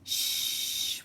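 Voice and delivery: breathy hushing shh; whispered shushing. Acted. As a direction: hush them gently. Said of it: "whispered Bob".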